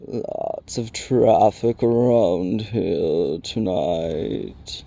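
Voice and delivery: very slow, crackly rock creature; crackling Rock Chewer. A narrator's reading. Stone giant remarking on a newcomer, slow crackle. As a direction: crackle it out at a ponderous crawl. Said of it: "he crackled".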